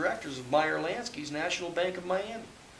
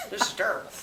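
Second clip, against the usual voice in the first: dismayed; 6 semitones higher, 3 dB louder, faster than usual. Retold or imitated. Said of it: "He says".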